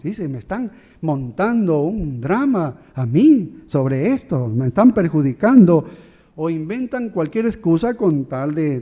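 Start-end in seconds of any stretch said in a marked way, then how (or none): 0.3-5.9 mock self-pitying victim. Preacher mimics an offender playing the victim, mock whine. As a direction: play the wronged victim, half mocking. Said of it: "Se hacen las víctimas".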